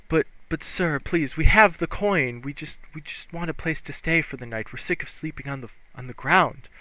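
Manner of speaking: put-on pleading young woman. GM voices pleading elven woman.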